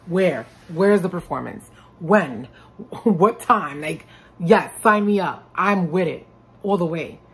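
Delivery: loud, eager "sign me up"; eager excitement. Pretend. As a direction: jump at every gig, all in. Mock eager reaction to offers.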